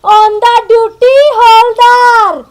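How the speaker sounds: very slow, drawn-out mocking echo; mocking quote. Wife quoting what her constable husband called himself, mocking quote. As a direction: stretch each word of the title derisively. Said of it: "वहाँ पे क्या बोल रहा था?".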